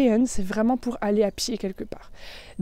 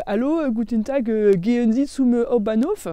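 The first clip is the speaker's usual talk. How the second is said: lightly imitated French-accented German; German with a learner's thick French accent; 2 semitones higher than usual. Newcomer asking a bus driver the way, French accent. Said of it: "avec mon accent bien français".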